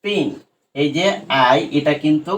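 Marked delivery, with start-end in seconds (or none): 0.0-0.3 "পিন" with a short "i"; short I sound. Shown as a demonstration. Teacher showing the short sound of I, short vowel in "পিন". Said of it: "আই এর short সাউন্ডটা দেখো".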